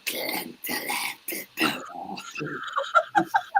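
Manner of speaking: high, soft garbled stammer; mock struggling reader. Teacher stuck at roll call, mock struggling noises. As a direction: imitate failing to sound out a strange name. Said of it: "struggling to get".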